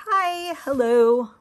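slow, wobbly squeaky hello; greeting comes out strange; odd voice crack. Real, not acted. Greeting new viewers, voice cracks oddly. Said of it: "What was that with my voice?".

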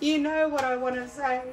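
high-pitched voice straight out of a giggle; high teasing squeak. Real, not acted. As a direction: squeak it, bursting to say it. Repeats hint straight after laughing.

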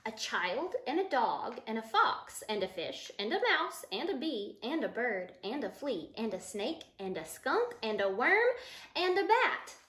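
rhythmic list building to a lift at the end; storybook list. Acted. Teacher reading the list of animals to the children, building rhythm. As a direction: read the list like a chant for kids. Reads picture book to children.

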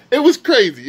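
hyped and loud, pitch jumping up; excited. Real, not acted. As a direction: blurt it out, amazed. Repeats the same phrase, first hyped.

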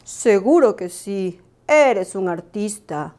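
voz lenta y pausada de búho sabio; anímalo despacio, como un viejo maestro; profesor Búho animando. Acted. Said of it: "le animó el profesor Búho". (un búho profesor animando, lento)

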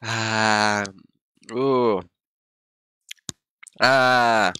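long, pained exhaling moans; pained sighing groan. Real, not acted. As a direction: let out groans at the burn. Burning mouth from the hot chip.

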